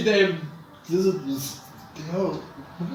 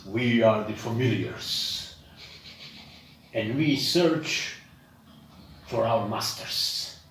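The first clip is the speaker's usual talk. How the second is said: a hint of a stately dragon, halting between phrases; dragon-like creature; 3 semitones lower than usual. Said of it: "that dragon-like creature says".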